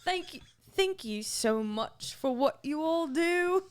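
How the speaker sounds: slow, halting try at Irish; attempted Irish accent. Co-host reading listener's letter, shaky Irish accent attempt. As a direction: feel your way slowly through a bad Irish accent. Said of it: "read this in the accent".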